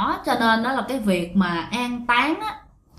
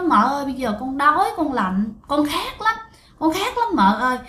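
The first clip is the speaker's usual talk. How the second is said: put-on higher, pleading little child; begging like a hungry, cold child; childlike ghost voice; 3 semitones higher than usual. Ghost boy begs his aunt, childlike and pleading. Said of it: "nói mà cái kiểu như con nít".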